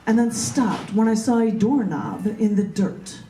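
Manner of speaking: slow, measured poetry reading; poem reading. Acted. Poet reading her own poem to the group, slow and measured. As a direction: let each image land with pauses.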